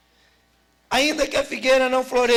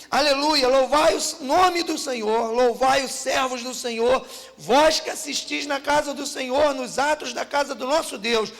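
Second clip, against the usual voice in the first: lifted, half-sung psalm reading; fervent reading of a praise psalm; scripture reading. Acted. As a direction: declaim it like a hymn of praise. Reads psalm aloud.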